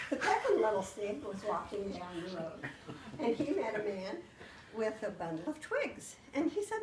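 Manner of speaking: put-on storytelling voice reading to children; story-time narration full of swapped sounds; spoonerized fairy tale. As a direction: tell the tale like to a class of kids. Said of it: "And so then I started out".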